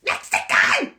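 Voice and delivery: high, strained shout in a mock accent; very loud, badly faked accent; James English impression. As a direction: squawk it in a hammed-up strong accent. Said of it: "however James English speaks".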